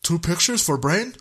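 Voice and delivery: dumb brain speaking; caveman brain voice. Pretend.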